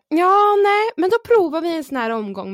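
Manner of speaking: mimicking midwife. Mimics staff deciding.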